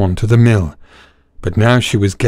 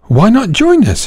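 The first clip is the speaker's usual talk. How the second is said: eager donkey; 11 semitones higher than usual. Acted. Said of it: "she said".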